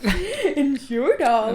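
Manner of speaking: breathy whisper through a laugh. Acted. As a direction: whisper it while giggling. Repeats teasingly in a whisper.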